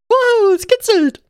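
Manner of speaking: high giddy squeal of delight. Pretend. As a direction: squeal like the water tickles. Pretend shower, squeal.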